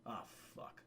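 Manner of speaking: scared breathless whisper; retold whispered curse; whispered oh fuck. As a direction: breathe it out under your breath. Alone, friends vanished.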